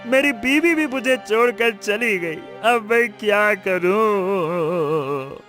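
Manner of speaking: mildly tearful pleading; weeping. Acted. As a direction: beg an elder for help through tears. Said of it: "क्यों रो रहे हो".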